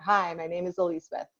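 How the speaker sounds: low-pitched talking voice. Shown as a demonstration. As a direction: drop down into the chest a little. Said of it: "talking a little bit lower".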